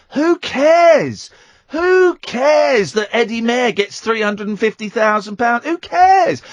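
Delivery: fed-up shouted brush-off. Real, not acted. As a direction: hammer the dismissal home, exasperated. Ranting at listeners about pay.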